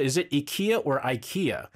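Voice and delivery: "ikea" first as EE-KAY-uh then as eye-KEE-uh; question of pronunciation. Retold or imitated. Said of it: "Our producer said".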